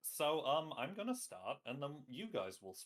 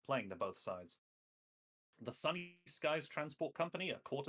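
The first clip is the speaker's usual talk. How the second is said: dramatic series intro voiceover; anime intro narration. A narrator's reading. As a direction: read it like an opening crawl.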